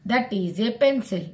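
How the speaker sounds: very slow, word by word; slow model sentence. Shown as a demonstration. Teacher reading an example slowly to students. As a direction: lay each word down for the class.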